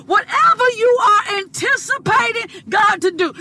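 rising, shouted preaching cadence; full-force preaching. Acted. Preacher urging her listeners, preaching hard. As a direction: drive each line home to the congregation.

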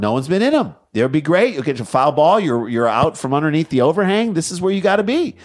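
high-pitched mock sales pitch; retold eager urging. Coaxing a stranger to other seats.

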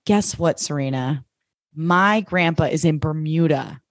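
lightly put-on dude voice, words drawn out; Nate voice. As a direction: imitate a TV heartthrob, slowly. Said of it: "that voice for Nate".

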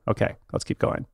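quick murmured aside to self; whispered aside. Real, not acted. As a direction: drop to a whisper and move on.

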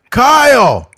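high loud shout through a laugh; laughing mock yell of the name; mock master yell. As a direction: bark the name again. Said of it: "My name is Umbaku".

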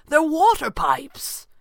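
high, loud, drawn-out exclamation; excited cry. A narrator's reading. Max alerting the others to the pipes, excited cry. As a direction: call it out slowly and excitedly. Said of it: "Max cried excitedly".

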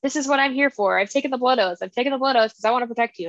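lightly whiny pleading, imitated; mock whining. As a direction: plead like a clingy whiner, half-hearted. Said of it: "crying and whining".

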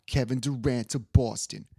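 half-hearted sportscaster quote, close to own voice; a hint of TV pundit; Stephen A. Smith. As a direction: lightly imitate an emphatic pundit's prediction. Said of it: "I can't do his accent".

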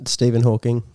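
flat synthetic robot voice. Retold or imitated. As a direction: speak like a speech synthesizer. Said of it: "Stop doing that robot voice".

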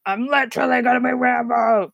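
over-the-top tough-guy imitation; Rambo. Co-host mocking the actor going too far, hammed-up action hero. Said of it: "went a bit far on that".

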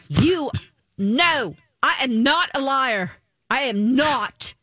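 hammed-up reality star insisting she's no liar; a light impression of an outraged castmate; imitating Sutton. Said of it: "You do a really good Sutton".

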